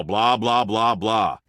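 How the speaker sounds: drawn-out, mocking chatter; blah-blah in mockery. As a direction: mimic pointless yapping. Mocks the other person's talking.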